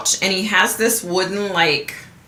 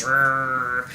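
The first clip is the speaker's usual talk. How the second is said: put-on toddler growl; 6 semitones lower, 4 dB quieter than usual. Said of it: "started doing his".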